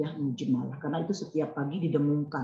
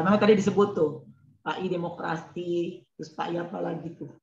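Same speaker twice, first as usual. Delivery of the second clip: choppy audio; faster than usual. Real, not acted. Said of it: "Tadi suaranya putus-putus".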